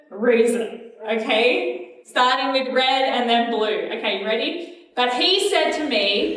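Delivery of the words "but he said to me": higher, slowed, belted cue; loudest voice. Shown as a demonstration. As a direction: call it out big. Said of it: "use our loudest voices".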